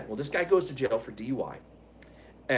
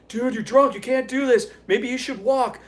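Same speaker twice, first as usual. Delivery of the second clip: worried warning; 9 semitones higher, 6 dB louder than usual. Retold or imitated. Worried friend warning drunk driver.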